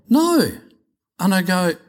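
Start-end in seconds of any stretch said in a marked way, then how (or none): 0.1-0.5 firm no. Retold or imitated. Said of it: "Lily goes".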